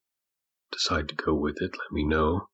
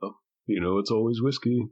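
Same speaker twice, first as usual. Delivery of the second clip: higher-pitched barkeeper aside; tossed over the shoulder; 5 semitones higher than usual. Acted. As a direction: toss it back over your shoulder. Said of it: "he kinda says over his shoulder".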